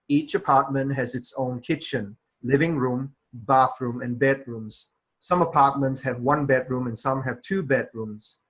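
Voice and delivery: measured reading, pausing at each full stop; model read-aloud. Shown as a demonstration. Teacher demonstrating an exam passage for students, measured read-aloud. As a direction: read it out carefully with clear stops at punctuation. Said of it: "supposed to read this whole excerpt like these".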